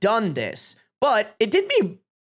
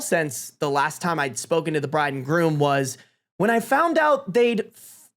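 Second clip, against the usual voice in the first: lightly put-on best-man speech. Best man addressing the wedding guests, speech voice. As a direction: read it out as if addressing a room. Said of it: "I'm giving a speech voice".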